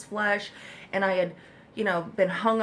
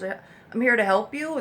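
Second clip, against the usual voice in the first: mock bureaucrat; 3 semitones higher, 6 dB louder, slower than usual. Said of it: "comes over and goes".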